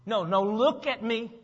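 slow, insistent parental demand; stern parent. Acted. Parent to a child not listening, stern and insistent. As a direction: make the child stop and listen, word by word. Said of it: "like a parent, if you look at your child".

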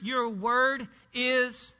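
slow, suspended cue on "Your word is"; leading prompt. Shown as a demonstration. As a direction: stretch "Your word is" very slowly, left hanging. Cues congregation to finish the verse.

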